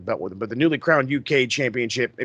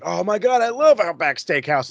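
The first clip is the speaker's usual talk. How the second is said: mock excited gush; 4 semitones higher than usual. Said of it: "Adam Cole's like".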